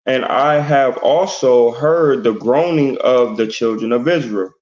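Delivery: measured, deliberate Bible reading; scripture reading. Acted. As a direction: read the verse out with weight. Reads scripture aloud.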